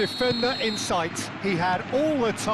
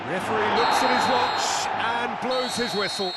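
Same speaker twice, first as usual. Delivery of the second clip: full-time call; 2 semitones higher than usual. Real, not acted. Full time whistle called.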